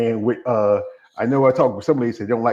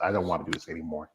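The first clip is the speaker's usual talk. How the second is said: weary giving up; 5 semitones lower, 9 dB quieter, faster than usual. Retold or imitated. Voicing giving-up self.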